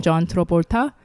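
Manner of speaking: put-on "John Travolta" in a slight Korean accent; attempted Korean accent. Host naming the Face Off star, attempted Korean accent. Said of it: "trying to say it in a Korean accent".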